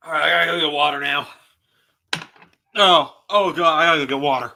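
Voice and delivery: loud, fast, gasping after harsh liquor; choking on shot. Real, not acted. Streamer after a bourbon shot, gasping and hurried. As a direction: rush the words out with a burning throat.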